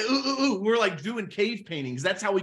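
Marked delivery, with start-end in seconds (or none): 0.1-0.6 caveman grunts. Pretend. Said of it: "my caveman".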